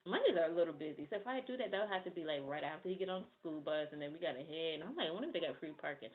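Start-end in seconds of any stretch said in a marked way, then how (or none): 5.1-6.1 thinking out loud. Real, not acted. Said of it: "I'm thinking out loud".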